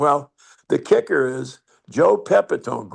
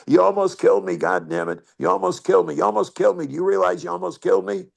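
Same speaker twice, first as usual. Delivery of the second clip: hammed-up outrage at a near beaning; retold scream; 5 semitones higher, faster than usual. Batter knocked down screaming at the pitcher, mock yell. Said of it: "he's screaming at me".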